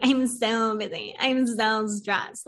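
slow, drawn-out mock complaint of being busy; mocking people who wear stress as a badge; mock busy brag. A slow, smug mock brag about how busy she is. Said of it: "So we're like".

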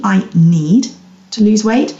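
"need" stressed, then a short pause. Shown as a demonstration. Coach explains how the thought feels, stress on "need". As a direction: set "need" apart with weight on it. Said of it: "emphasis on the word need".

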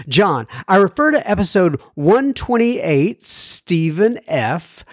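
measured radio host reading; clear, deliberate mail-segment read; letter read aloud. Acted. Reads a listener's letter aloud.

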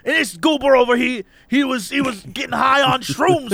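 lightly voiced rambling stranger; stranger's voice. Stranger gossiping about a man on shrooms, in a lightly put-on voice. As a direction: imitate a worked-up storyteller. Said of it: "I'm doing a voice that's not his voice".

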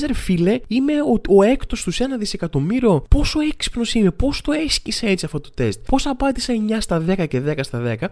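high-pitched, mock-amazed self-praise; self-impressed. Quiz taker congratulating himself on his score, mock-impressed. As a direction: play someone lightly marvelling at their own brilliance.

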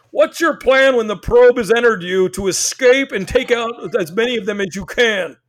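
hammed-up alien-hunter rant; paranoid Randy Quaid. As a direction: rant like a crazed conspiracy man. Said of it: "turning into Randy Quaid".

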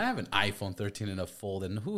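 high and loud, laughing at it; you can't believe someone carries two phones; amused disbelief. Retold or imitated. Telling a stranger his two phones are weird, loud and laughing.

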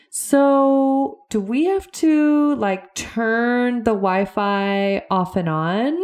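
put-on high, slow, puzzled old-aunt voice; imitating aunt. Aunt earnestly asking her niece about the Wi-Fi, high and slow. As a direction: lightly play the aunt baffled by the Wi-Fi. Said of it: "And she goes".

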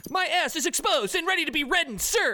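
high, keen recruit voice; eager old pledge. Acted. Old pledge answers frat leader.

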